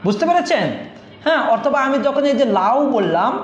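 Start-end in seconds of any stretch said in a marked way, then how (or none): 2.6-2.8 লাউ with a full আ gliding into a half উ; full আ, then a brief উ in লাউ; half-vowel glide. Shown as a demonstration. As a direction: say লাউ as one syllable, the final উ only half sounded. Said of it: "স্বরে আ হচ্ছে হলো পূর্ণ স্বর".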